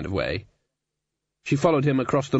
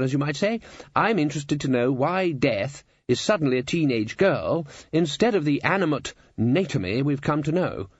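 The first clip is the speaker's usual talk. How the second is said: slightly higher, pompous wizard; chancellor holding forth; 4 semitones higher than usual. Acted. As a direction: hold forth as the head wizard. Voices Ridcully in the story.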